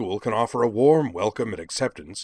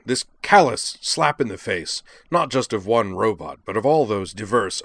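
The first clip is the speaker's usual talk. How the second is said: louder, higher, indignant oratory; scowling declamation; 4 semitones higher, 7 dB louder than usual. A narrator's reading. Jakron rebukes the dean over a callous eviction, scowling declamation. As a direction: build the tirade with punched words. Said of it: "then scowled, whirled, and continued".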